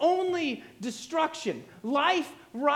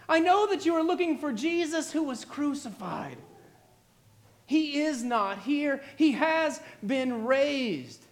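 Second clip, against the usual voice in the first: lightly voiced angel's proclamation, raised at first then slowing; delighted, imposing angel. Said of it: "a voice as delighted as it was imposing".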